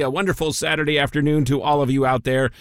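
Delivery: stuffy, nasal radio voice. Real, not acted. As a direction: talk through a nasal, stuffed-up voice. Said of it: "my nasally voice".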